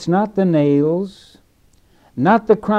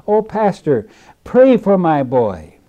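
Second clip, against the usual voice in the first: pleading cry; 3 semitones higher, 5 dB louder than usual. Retold or imitated. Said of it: "she cried out to the minister".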